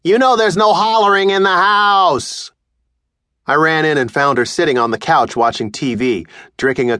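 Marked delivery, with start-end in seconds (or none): 0.0-2.5 a higher stern mother's rebuke; mother scolding the boy for hollering; scolding mom. Acted. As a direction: remind him of the house rule. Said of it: "I heard her yell".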